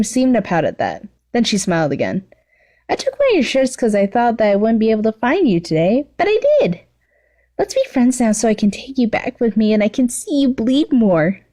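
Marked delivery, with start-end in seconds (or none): 2.9-11.4 put-on high, giddy girl's squeal; gleeful stalker girl, pitched way up; excited high voice for the villain girl; Toga's voice. Toga voiced again.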